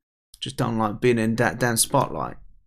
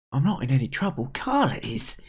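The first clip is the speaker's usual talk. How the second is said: put-on anxious young character; 3 semitones higher than usual. Kid character replies.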